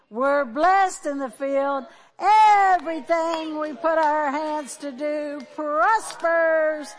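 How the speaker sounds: loud, rising preacher's blessing; a closing blessing declared loudly to the congregation; fervent prayer. Acted. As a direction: pray it out with full force over the room.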